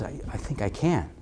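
low, hushed self-encouragement; quiet inner resolve. Acted. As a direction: think it aloud softly, tentatively. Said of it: "something inside of you says".

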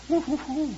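high mocking woo hoo hoo; mocking hoots. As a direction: hoot like jeering critics.

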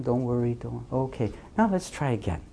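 very soft, soothing voice; calm a crying child very quietly; hushed parental reassurance; tender comforting parent. Acted. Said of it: "mommy is just always so tender".

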